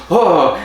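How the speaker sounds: high, loud "oh!"; a retold cry of alarm; mock startled oh. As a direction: blurt a mock-shocked oh. Acts out shock at a throw.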